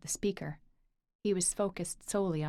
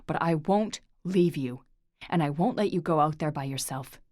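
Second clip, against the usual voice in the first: 1 pleading; 5 dB louder than usual. Acted. Lorcan pleads, pinning Orla.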